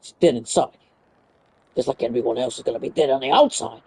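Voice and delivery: low, soft deadpan menace; deadpan dark voice. Pretend. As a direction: say it low and ominous. Dark joke about Yuri.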